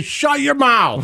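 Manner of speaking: slow, stern Shut your mouth; drawn-out scolding of a senator; mock politician put-down. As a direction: lay down the law slowly, mock stern. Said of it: "the ability to say".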